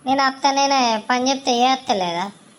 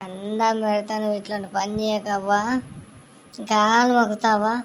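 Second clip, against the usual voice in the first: soft, lower begging plea; pleading; 3 semitones lower, 5 dB quieter than usual. Acted. Mother-in-law begging daughter-in-law not to leave, soft pleading. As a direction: beg her softly not to take your only son.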